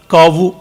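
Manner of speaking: kavu in two syllables, ka-vu; alternative pronunciation. Shown as a demonstration. Lecturer questioning English spelling, kavu sounded out as ka-vu. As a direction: say kavu with a V before the final U. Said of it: "Why cow should not be".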